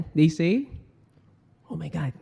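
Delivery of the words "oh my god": upset. Shown as a demonstration. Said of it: "If they are upset".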